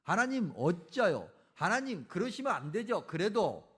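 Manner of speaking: emphatic, loud challenge; demanding protest. Acted. Habakkuk confronting God over his plan, demanding protest. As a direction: press God for an answer, building in force. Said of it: "따져 묻는다는 거죠".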